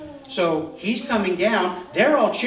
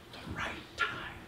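whispered, slow, secretive; conspiratorial whisper; 17 dB quieter than usual. Acted. The kingdom of hell plotting Jesus's end, a slow whisper. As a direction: breathe it like a plotter sharing a secret.

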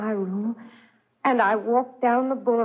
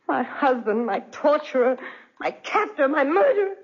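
rising bitter accusation; 3 semitones higher than usual. Acted. Wife's mounting accusation of husband.

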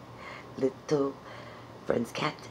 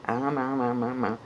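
weak chewing sounds; 3 semitones lower, faster than usual. Shown as a demonstration. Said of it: "do it like you mean it".

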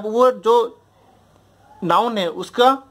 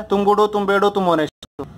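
"तुम गुड हो, तुम बैड हो" evenly patterned, "तुम honest हो" falling to close; rhythm drill. Shown as a demonstration. Teacher showing students a test for adjectives, rhythm drill. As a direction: recite in a rhythmic three-part pattern. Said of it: "एक rhythm बना लो".

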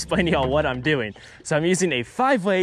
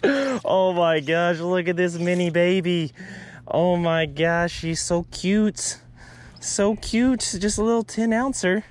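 cooing over tiny fish; 3 semitones higher, slower than usual. Real, not acted. Angler cooing at a tiny bass, doting baby talk.

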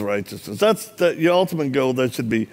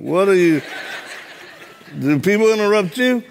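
laughing indignation; 5 semitones higher than usual. Retold or imitated. Annoyed at being interrupted.

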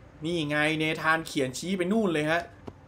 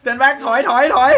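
"stand back ถอย ถอย ถอย" called out louder, higher and slower; loud warning; 5 semitones higher, 8 dB louder, slower than usual. Real, not acted. Echoing the character's warning, a loud slowed-down call. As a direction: shout the warning to clear the way. Repeating the game's warning shout.

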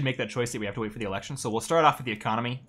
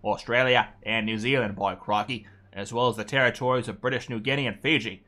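put-on Australian accent. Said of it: "my Australian accent's turning into something".

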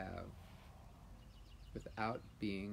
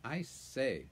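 shocked; 3 semitones higher, 4 dB louder than usual. Acted. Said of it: "in a rather shocked voice".

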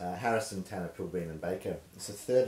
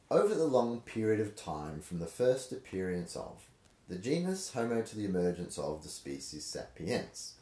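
rhythmic reading. Shown as a demonstration. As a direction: read the prose in a sing-song rhythm. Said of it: "I'll see if I can manufacture a rhythm out of it".

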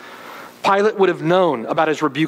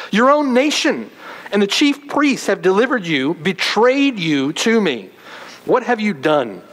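contempt; 5 semitones higher than usual. Retold or imitated. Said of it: "reveals the contempt that he has".

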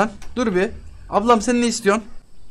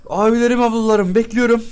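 calling out; 4 semitones higher, 4 dB louder than usual. Acted. Seller calling out to customers.

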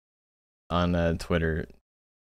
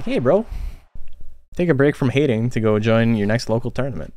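pitched-up, easygoing call to a hater; friendly bro nudge; 3 semitones higher than usual. Retold or imitated. To a Twitter hater, a breezy high friendly nudge. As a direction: cheerfully tell him to go play instead. Retelling his own friendly reply.

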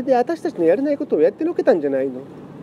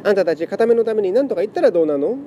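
tearful pleading; 4 semitones higher than usual. Acted. Lament cat pleads emotionally.

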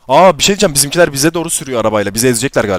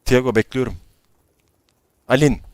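normal talking voice

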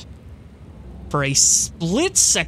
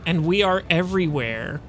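raised, taunting zealot voice; gloating cultist; 2 semitones higher than usual. Acted. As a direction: taunt them like a fanatic prophet.

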